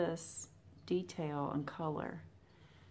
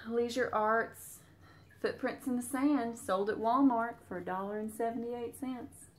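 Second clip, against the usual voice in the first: lively, higher-pitched Southern twang; thick Southern accent; 4 semitones higher, 3 dB louder than usual. Real, not acted. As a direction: read it off in a country Southern accent. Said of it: "go into my thick Southern accent".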